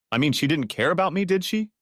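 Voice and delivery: jilted husband ranting to Rose, pitch climbing. A narrator's reading. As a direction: spit it out, mildly ranting. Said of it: "ranted Tom".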